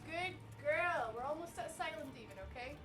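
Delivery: soft murmured coaching, like guiding a pet; hushed coaxing. Real, not acted. Streamer quietly coaxing the character Evie through the level, hushed encouragement.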